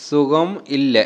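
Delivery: "সুগম ইল্লা" in a Malayalam lilt, falling at the end; Malayalam intonation. Shown as a demonstration. Teacher showing how it must be said, Malayalam intonation on "সুগম ইল্লা". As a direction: let "সুগম ইল্লা" swing and fall. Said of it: "এরকম কিন্তু বলতে হবে".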